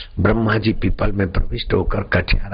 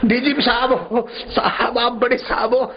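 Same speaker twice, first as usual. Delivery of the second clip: high voice breaking into giggles; laughing while talking; 12 semitones higher than usual. Acted. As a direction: officials who can't stop laughing. Officials questioning each other, all laughing.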